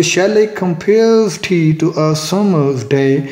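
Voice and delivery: slow, measured reading of "Shall I compare tea to a summer's day?", syllable by syllable; iambic scansion. Shown as a demonstration. Teacher showing the five iambic feet to students, slowly scanned. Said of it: "पहला, पहला unstress था और दूसरा".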